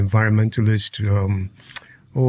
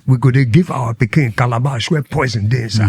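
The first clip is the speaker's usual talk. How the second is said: translate into homely Nigerian Pidgin. Shown as a demonstration. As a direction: switch into Pidgin lingo with a Nigerian lilt. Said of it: "in our own lingo".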